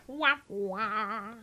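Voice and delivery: mock sad trombone wah wah. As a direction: play the failing horn with the voice. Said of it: "You need a bad joke alert".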